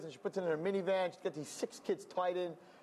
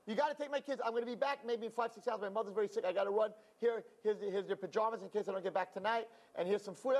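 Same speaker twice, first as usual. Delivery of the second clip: frantic neighbor; 4 semitones higher than usual. Retold or imitated. Neighbor dumping kids, rushing off.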